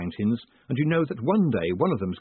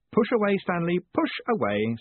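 higher opening, easing back down; cheerful encouragement; 8 semitones higher than usual. A narrator's reading. Boss urging his shy junior on, cheerful. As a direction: wave him on cheerily. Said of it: "said Moist cheerfully".

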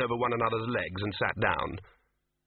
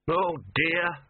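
moaning; 6 semitones higher than usual. A narrator's reading. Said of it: "moaned the Dean".

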